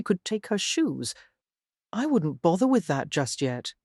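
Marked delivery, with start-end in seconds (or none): 1.9-3.7 calm. Acted. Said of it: "he said calmly".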